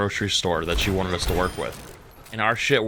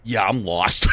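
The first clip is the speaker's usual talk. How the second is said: mock lost shout; 2 semitones lower than usual. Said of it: "I was like".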